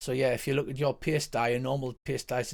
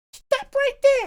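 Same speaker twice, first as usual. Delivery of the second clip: very high, loud, rat-like squeaking voice; 8 dB louder than usual. Game master voicing the Ratman as it fires at a player, Ratman squeaking. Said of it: "He squeaks at you".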